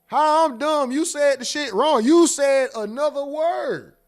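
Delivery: high, loud, outraged protest; you said it wrong, not me; indignant yelling. Retold or imitated. Comedian yelling at friend who called him dumb, indignant. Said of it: "I'm like".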